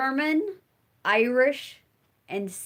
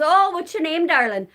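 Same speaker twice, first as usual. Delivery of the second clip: gushing poet; 7 semitones higher, 5 dB louder than usual. Retold or imitated. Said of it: "And she says".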